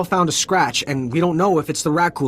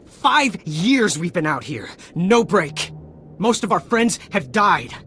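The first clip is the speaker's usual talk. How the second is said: worn-out soldier finally breaking, higher and raw; anguished outburst; 5 semitones higher than usual. Acted. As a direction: pitch climbing higher with each bitter line. Deserter's bitter outburst about war.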